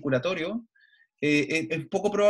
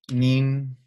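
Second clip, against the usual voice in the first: slow, drawn-out syllables while writing; dictado al escribir; 4 semitones lower, 5 dB louder, slower than usual. Shown as a demonstration. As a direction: stretch it out syllable by syllable. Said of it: "Te voy a escribir". (dictado lento, sílaba por sílaba)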